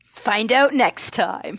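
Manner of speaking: slow dramatic announcer; dramatic teaser. Acted. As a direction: stretch it like a cliffhanger tag. Dramatic podcast sign-off.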